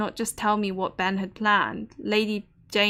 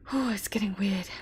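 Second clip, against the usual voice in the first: whisper; 5 dB quieter than usual. Real, not acted. Eerie moment, speaker whispers.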